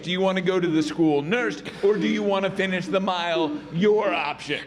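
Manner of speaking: firm, matter-of-fact coach ruling; a touch of no-nonsense teacher; lightly voiced gym coach. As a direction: lay out the options like a fed-up coach.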